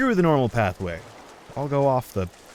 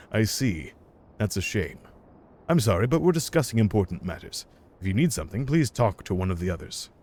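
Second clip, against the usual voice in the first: lightly voiced dismissive staffer. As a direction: turn the visitor away, a touch deflated. Voices guild staffer dismissing player.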